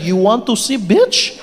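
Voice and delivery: put-on slow, menacing Russian accent; mock threat in a Russian accent. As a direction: scare them off in a Russian accent. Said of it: "Just whip out your Russian".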